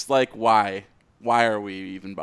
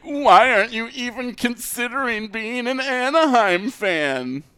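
higher, pestering mock question; mock nagging fans; 13 semitones higher, 4 dB louder than usual. Podcaster mimicking nagging fans to his cohost, mock pestering. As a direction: toss off the fans' nagging question in a put-on voice. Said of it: "when people were like".

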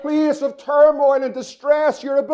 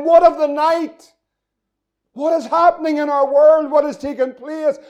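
anguished cry; 4 semitones higher than usual. Acted. People crying out, preached.

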